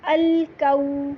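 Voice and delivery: الکو with fully rounded lips on a long oo-o, slow. Shown as a demonstration. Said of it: "ہونٹوں کو گول کریں گے". (الکو گول ہونٹوں سے)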